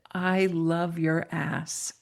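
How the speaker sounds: slow, measured and sincere; heartfelt confession. Retold or imitated. Woman grabs her seatmate's hand after the story, slow and heartfelt. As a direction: say it slowly, letting each word land. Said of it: "she grabbed my hand and she said".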